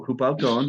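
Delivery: HOOP OUT TONE begun with an audible H; sounded H. Shown as a demonstration. Teacher correcting student, HOOP with the H sounded. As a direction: breathe an H onto the front of HOOP. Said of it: "that it's an H".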